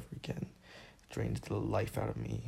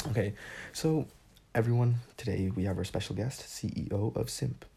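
louder, hammed-up show host announcing a guest; mock host introduction; 3 dB louder than usual. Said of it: "Reintroduce me".

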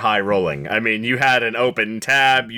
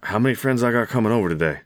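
husband repeating quietly; much faster than usual. Acted. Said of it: "quietly goes".

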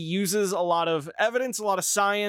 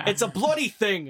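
Jordan Peterson impression; 3 semitones higher than usual. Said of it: "This Jordan Peterson impression".

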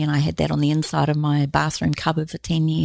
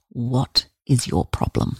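put-on blunt child; 2 semitones lower, slower than usual. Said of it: "he goes".

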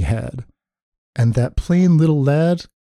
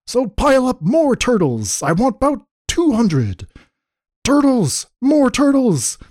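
high, commanding king's bellow; imperious storybook bellow; bellowed and brayed; 10 semitones higher than usual. A narrator's reading. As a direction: bray out royal orders, pitch way up. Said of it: "he bellowed and brayed".

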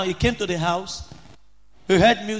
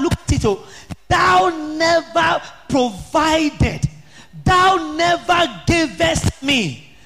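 slow, drawn-out, higher protest stressing thou never; aggrieved complaint; 6 semitones higher, slower than usual. Retold or imitated. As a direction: plead the grievance word by word, slowly. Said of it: "And he was angry".

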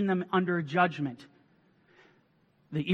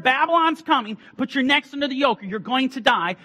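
prophet's warning; 9 semitones higher, 7 dB louder than usual. Retold or imitated. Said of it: "when they were warned".

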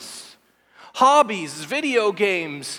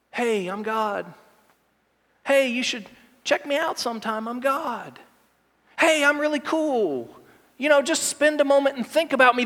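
gentle, casual god. Pretend. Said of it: "this isn't a gentle".

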